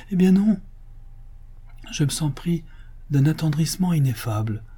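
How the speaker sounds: high-pitched, emotional rapture; tearfully moved. Acted. Master confides his joy to his majordomo, tearfully moved. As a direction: gush with tender wonder, near weeping. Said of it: "s'écria d'une voix attendrie".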